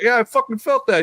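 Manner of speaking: high-pitched retold protest; mock alarm. Retold alarm at feeling the pinch.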